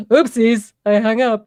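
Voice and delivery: giggling loudly; laughing. Real, not acted. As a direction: laugh through the words. Laughing after hanging up.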